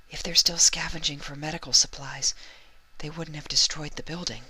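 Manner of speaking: high, timid mare voice; Fluttershy's voice. A narrator's reading.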